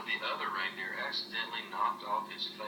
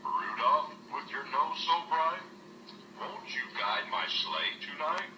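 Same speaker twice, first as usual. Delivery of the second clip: smiling Santa; 5 semitones higher than usual. Acted. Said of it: "with a big smile on his face, he said".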